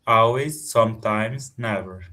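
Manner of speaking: Always and sometimes said loud; stressed words. Real, not acted. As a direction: punch each bold word. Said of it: "stress the words in bold".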